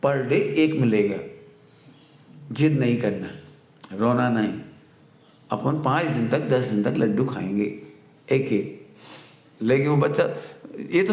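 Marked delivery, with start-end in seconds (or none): 0.0-8.9 loving mother. Retold or imitated. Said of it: "अपन बच्चे को बहुत प्यार से समझाए".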